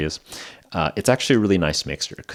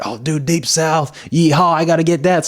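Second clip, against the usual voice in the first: excited cowboy whoop; 8 semitones higher, 4 dB louder than usual. Retold or imitated. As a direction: reenact a giddy, louder discovery. Reenacts spotting Deep South ice cream.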